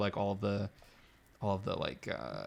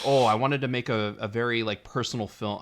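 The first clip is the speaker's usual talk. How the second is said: bad Mexican accent. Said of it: "I keep doing this really bad accent".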